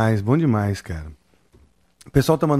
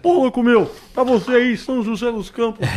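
Faustão impression; 11 semitones higher than usual. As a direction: belt it like a shouting variety-show host. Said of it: "A caravana". (imitação do Faustão)

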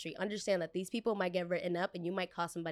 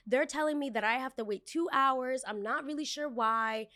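entitled customer; 4 semitones higher than usual. Retold or imitated. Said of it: "She goes".

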